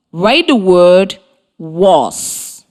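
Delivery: slow, clear dictation of the word "he". Shown as a demonstration. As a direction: say "write the word he" slowly, leaning on "he". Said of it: "you will write the sight word I tell you".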